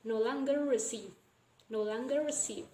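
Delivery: "No longer receive" with the two r sounds merged; full assimilation. Shown as a demonstration. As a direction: run "longer receive" together on a single r. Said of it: "this will be full assimilation".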